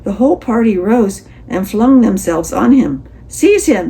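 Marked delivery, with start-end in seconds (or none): 3.3-3.9 loud, high alarmed cry. A narrator's reading. Party seizing Toad in horror, loud cry. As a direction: shout the order. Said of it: "they cried".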